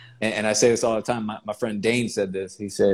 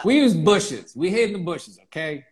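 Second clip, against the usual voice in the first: put-on old prospector; 7 semitones higher than usual. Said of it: "These whippersnappers don't know".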